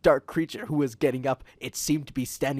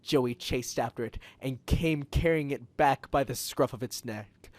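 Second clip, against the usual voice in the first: usual speaking voice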